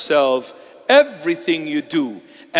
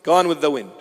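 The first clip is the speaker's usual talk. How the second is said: dramatic echo; 5 dB quieter, faster than usual. Acted. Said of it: "repeated, then echoed softer".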